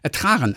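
"Ertragen" with a strong R sound; ertragen with a rolled R. Shown as a demonstration. To his co-host, showing Berlin ertragen, rolled R. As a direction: lean into the R in "Ertragen". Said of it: "also ein R eher".

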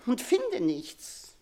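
slow, falling, hopeless. Acted. Queen to her daughter, slow and defeated. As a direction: let it sink slowly, defeated. Queen despairs at finding no words.

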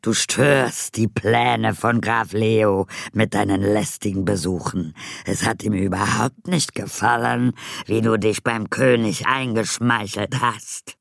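threatening voice. Acted. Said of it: "mit drohender Stimme".

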